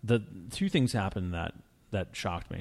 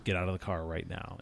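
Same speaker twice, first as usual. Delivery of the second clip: put-on German accent; 4 dB quieter than usual. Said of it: "in a thick German accent".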